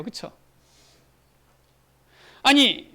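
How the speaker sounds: normal talking voice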